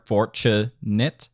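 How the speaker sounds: "Fortunate" slowly in syllables, FOR first; downbeat on FOR. Shown as a demonstration. Teacher locates the downbeat, slow "Fortunate" weighted on FOR. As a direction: spell out "Fortunate" by syllable, leaning on FOR. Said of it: "The downbeat is on four".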